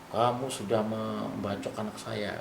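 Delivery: put-on slow, measured accusation from an angry old man; mild retold anger. Retelling the dream father's accusation, slow and mildly angry. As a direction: drag out the blame, a touch menacing.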